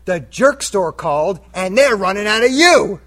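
loud, slow, gloating punchline; smug comeback. Retold or imitated. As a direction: deliver the comeback like a knockout. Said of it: "and I said".

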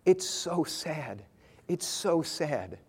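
slow, soft imitation of a sad boy; understated mock weeping, drawn out; retold tearful child. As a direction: quote a crying child slowly and quietly, without real sobs. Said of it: "and he's just crying".

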